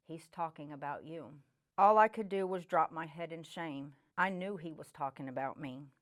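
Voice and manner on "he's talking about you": soft, hushed voice of Jesus in her ear; quiet inner voice. Retold or imitated. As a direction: say it softly, like a voice inside your head.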